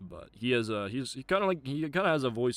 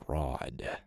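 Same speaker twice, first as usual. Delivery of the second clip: a lightly voiced brooding orator; dramatic monologue; 5 dB louder, slower than usual. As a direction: condemn the fraud superhero solemnly. Acted villain-denouncing monologue.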